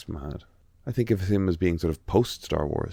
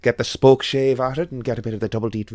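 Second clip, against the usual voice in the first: imitating a TikTok craftsman's hammed-up Irish accent; thick Irish woodworker; 3 semitones higher than usual. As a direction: lay on the Irish like a tool-maker mid-demo. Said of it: "if someone was doing that in a movie".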